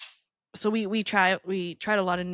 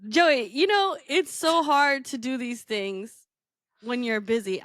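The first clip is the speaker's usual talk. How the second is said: higher, slow, whiny plea; mock whiny excuse; 4 semitones higher than usual. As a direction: whine it.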